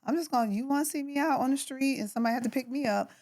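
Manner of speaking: hurry-up plea, half joking; bargaining with God. Retold or imitated. Wrestling with God over money, joking fast ultimatum. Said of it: "I'm like".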